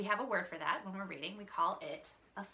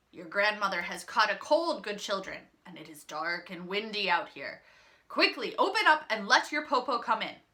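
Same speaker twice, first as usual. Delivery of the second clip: louder coaxing grandma act; cunning wolf; 7 dB louder than usual. Acted. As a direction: wheedle them to open up. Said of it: "the cunning wolf said".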